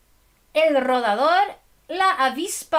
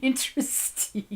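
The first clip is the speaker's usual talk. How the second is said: usual speaking voice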